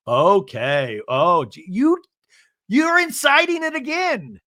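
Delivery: high-pitched indignant wail; mock outraged accusation. Accusing Lisa of inciting it, in mock high outrage. Retold quarrel, accusing her.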